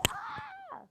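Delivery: thin, very high squealed scream; mock scream. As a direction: imitate a girl's scream without volume. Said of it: "she would scream like".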